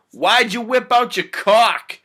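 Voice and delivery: high, loud, drawn-out question; alarmed yell. Acted. Will to the hypnotist who exposed himself, alarmed yell. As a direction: cry it out in shock.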